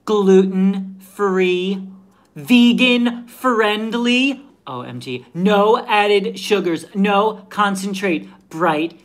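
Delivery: put-on slow, drawn-out Valley Girl gush; breathless Valley Girl hyping a can; bubbly California Valley Girl read; Valley Girl accent. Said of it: "I will give you my best Valley Girl".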